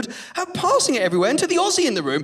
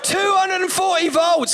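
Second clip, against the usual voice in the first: proud shout; 6 semitones higher than usual. Real, not acted. Repeats voltage, shouting.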